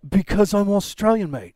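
put-on loud, half-baked Australian accent; mock Australian accent. Host joking back to co-host, in a loud fake Australian accent. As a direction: play at being an Australian. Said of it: "talking with an Australian accent".

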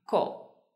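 Ko with a hard K and hardly any air; K sound. Shown as a demonstration. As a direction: say Ko with an unaspirated K. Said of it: "se pronuncia con el sonido K".

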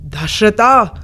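loud, thundering name called in fury; booming angry call. Acted. Sage rebukes King Dashratha, calling him out in booming anger. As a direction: roar the king's name in rage. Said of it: "His voice boomed out".

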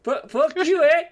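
beaten-up Canadian, light "eh?"; hurt Canadian local groaning at the party; Canadian accent. Acted. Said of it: "Hope my accent's spot on".

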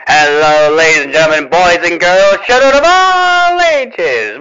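grand showman announcing the show; ringmaster. Acted. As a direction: call out like a circus ringmaster. Ringmaster-style show opening.

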